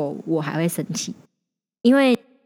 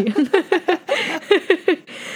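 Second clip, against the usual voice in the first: hummed mock bleep tone; 11 semitones higher than usual. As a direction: cover the swear with a beep sound. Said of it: "你为什么要自己消音".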